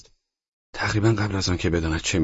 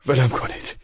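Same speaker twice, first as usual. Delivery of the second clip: high, desperate shout; high shout of let me go; 10 semitones higher than usual. Acted. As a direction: yell it to break free. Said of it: "ترکوفسکی فریاد زد".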